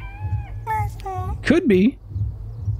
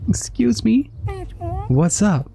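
whisper; 7 semitones higher, slower than usual. Acted. Sneaking up on the frog.

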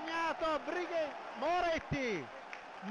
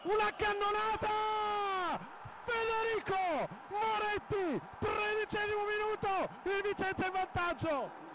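excited goal call; 5 semitones higher than usual. Real, not acted.

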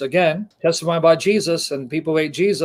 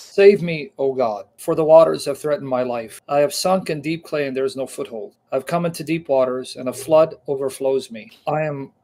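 fervent Bible reading; emphatic scripture reading. Acted. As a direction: proclaim the psalm like a prayer of distress. Reads psalm aloud.

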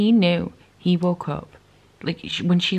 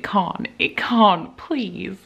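pleading; 2 semitones higher, much slower than usual. Real, not acted. Pleading over plot.

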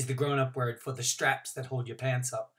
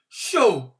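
higher, louder deflated exclamation; disappointed huff; 6 semitones higher, 10 dB louder than usual. A narrator's reading. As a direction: let it out like a sulk. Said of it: "I said".

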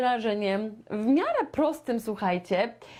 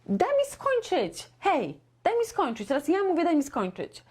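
pitched-up, indignant interruption-stopper; mock exasperated; 6 semitones higher than usual. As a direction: insist on finishing, mock annoyed. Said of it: "ktoś ci przerywa".

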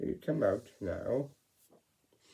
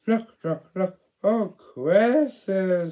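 high, loud excited calls; excited calling; 9 semitones higher, 12 dB louder than usual. Acted. Child voicing Percy, excited high calls. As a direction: call out in wonder.

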